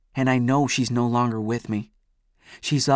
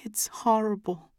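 whisper; 10 semitones higher, 4 dB quieter than usual. A narrator's reading. Amy tearfully tells what she found.

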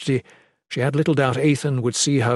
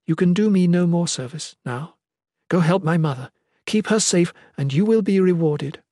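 higher, despairing dismissal; 6 semitones higher than usual. A narrator's reading. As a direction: release a loyal servant, despair showing. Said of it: "keeping the despair at the forefront".

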